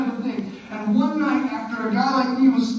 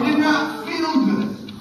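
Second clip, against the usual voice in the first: mock pained shout; 4 semitones higher, 3 dB louder than usual. Recalling the pain of the injury.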